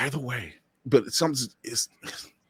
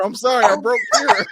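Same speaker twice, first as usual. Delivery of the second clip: hammed-up guilty apology, louder and higher; mock apology; 9 semitones higher, 7 dB louder, faster than usual. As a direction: play it as a fake-sorry confession. Mock apology, loud laughing.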